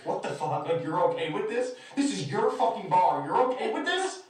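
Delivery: incredulous appeal, climbing to a high question; retold disbelief. Silently appealing to other bar patrons, mounting incredulity. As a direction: build from muted disbelief to indignation. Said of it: "I'm looking at other people in the eyes".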